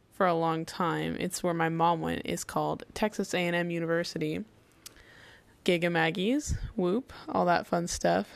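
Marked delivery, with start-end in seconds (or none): 5.6-8.3 half-hearted. Real, not acted. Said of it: "I'm sorry if I sound unenthusi".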